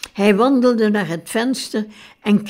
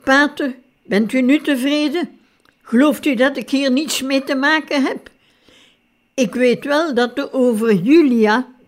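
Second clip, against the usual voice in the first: high, loud bellow at the priest; raised, high-pitched furious outburst; roaring; 5 semitones higher, 3 dB louder than usual. A narrator's reading. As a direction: roar it in anger. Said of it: "Hij brulde".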